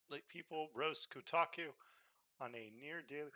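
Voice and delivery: talking through hiccups; hiccuping between words. Real, not acted. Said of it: "sorry, I keep hiccuping".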